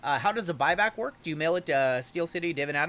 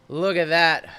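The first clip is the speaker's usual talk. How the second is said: louder excited repeat; 3 semitones higher, 8 dB louder than usual. Real, not acted. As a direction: show it off with real delight. Showing off a card.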